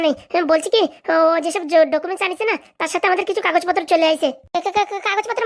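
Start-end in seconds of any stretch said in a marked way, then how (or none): 4.5-5.4 stammering. Acted. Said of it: "কথা বলতে তুতলাচ্ছিস কেন?".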